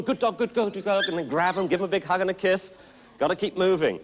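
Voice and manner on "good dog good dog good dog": higher, eager "good dog" praise; happy praise. Shown as a demonstration. Coach showing the owner how to praise the incoming puppy, higher. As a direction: cheer the puppy in as it arrives. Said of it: "And you call them".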